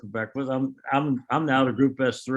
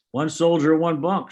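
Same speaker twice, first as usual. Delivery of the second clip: each phrase punched out, a touch higher and louder; firm military quote; 4 semitones higher, 3 dB louder than usual. Retold or imitated. Marine colonel settling it to the colonel, clipped and firm. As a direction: lay it down like an order you won't repeat.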